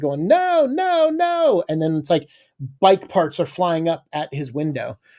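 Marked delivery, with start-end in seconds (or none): 0.3-1.6 desperate, high-pitched mock scream. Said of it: "Eddie is screaming down".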